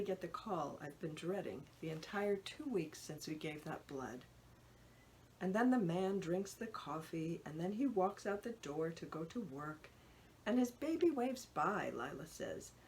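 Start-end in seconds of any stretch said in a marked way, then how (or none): 5.4-11.9 put-on sing-song picture-book reading, like a small child; toddler reading cadence. Mother imitating her toddler reading a picture book, sing-song. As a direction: mimic a toddler pretending to read aloud. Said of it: "mimicking a reading cadence".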